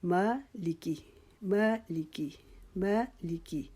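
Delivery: مالکی with ما stretched and لیکی said quickly; long ما, quick لیکی. Shown as a demonstration. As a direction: hold ما, then rush لیکی in مالکی. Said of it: "لیکی کو ہم نے جلدی سے پڑھنا ہے".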